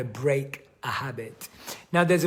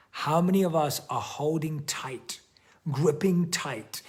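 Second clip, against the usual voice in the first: whisper; 2 semitones higher than usual. Real, not acted. Reflective question to audience.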